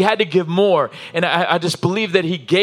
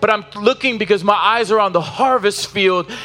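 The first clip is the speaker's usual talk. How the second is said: rising preacher's cry, building with each line; preaching at full force; 3 semitones higher than usual. Acted. Pastor urging the congregation to finish the race, impassioned and building. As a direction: drive it home to the whole congregation.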